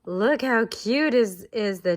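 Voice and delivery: teacher cooing at the duckling picture; delighted gasp. Real, not acted. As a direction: gasp then gush over the picture. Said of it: "gasps at picture".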